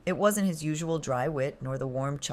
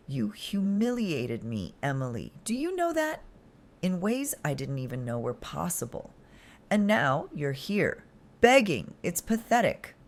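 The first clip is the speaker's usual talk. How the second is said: cold contempt; 3 semitones higher than usual. Acted. Cold contempt toward begging partner.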